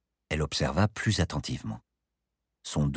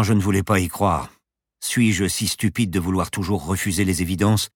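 stunned professor; 3 semitones higher, 5 dB louder than usual. Acted. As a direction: dwell on the grim realisation. Pilot reels at a grim revelation.

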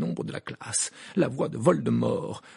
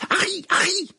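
loud, high urgent call; alarmed shout of his name; 9 dB louder than usual. Acted. Classmate calls out.

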